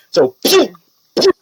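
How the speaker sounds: spat-out "pew" shots; crossbow shot noises. Acted. Game master firing the knight's crossbow, mouthed shot noises. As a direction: imitate bolts being fired.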